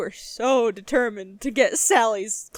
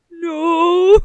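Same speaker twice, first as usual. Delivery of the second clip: high, loud, cracking "No"; loud mock wail of no; 8 semitones higher, 12 dB louder than usual. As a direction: wail the no as if you are half crying. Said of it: "responded with".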